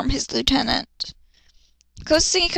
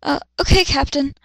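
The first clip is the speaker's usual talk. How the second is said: stutter; 2 semitones higher than usual. Acted. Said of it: "She stuttered".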